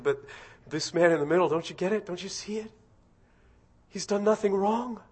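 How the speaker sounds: impassioned plea. Acted. Dying thief pleading with the other criminal, building to a shout. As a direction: plead urgently with a fellow criminal.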